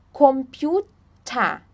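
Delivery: "Computer" slowly, ending in "ta". Shown as a demonstration. Teacher giving an example of final ER, "Computer" ending in A. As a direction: draw out "Computer" as "kompiu-ta". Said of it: "tem o som de A".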